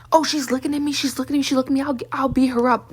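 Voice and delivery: whiny taunting voice; mock them as paranoid bullies; lightly voiced mocking neighbor. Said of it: "be like".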